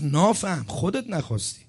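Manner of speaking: lightly imitated Khorasani accent. Preacher repeating Allameh Bohlool's rebuke, lightly imitated Khorasani accent. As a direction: repeat it softly with a Khorasani lilt. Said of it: "با همون لهجهٔ خراسانی برگشت گفت".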